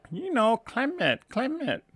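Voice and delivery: put-on high-pitched insistent mom, heavy Asian accent; mother's Asian accent. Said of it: "her heavy Asian accent".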